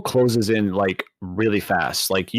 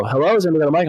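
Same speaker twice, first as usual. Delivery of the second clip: raised-pitch mock voice-chat query; imitating another player; 6 semitones higher, much faster than usual. Imitating a player asking the voice chat, questioning. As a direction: call out like a player checking the mic. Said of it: "and they'd go".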